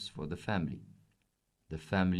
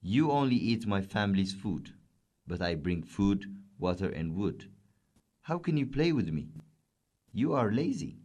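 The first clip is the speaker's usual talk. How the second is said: a touch of anger, rising on the scolding; angry camel. Acted. Camel scolds the lazy cat, mildly angry. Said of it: "said the camel angrily".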